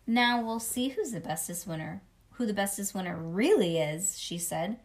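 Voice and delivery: put-on lively read-aloud as a little kid narrator; chatty kindergartner storytelling; children's story narration. A narrator's reading. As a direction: read it to a child with bouncy emphasis.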